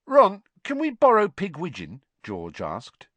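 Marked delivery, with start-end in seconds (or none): 0.0-2.0 bright. A narrator's reading. George asks brightly.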